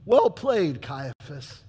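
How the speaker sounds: loud, biting "Well played"; sardonic praise. Pilate ironically praising Caiaphas, loud and biting. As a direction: hand Caiaphas a cutting compliment.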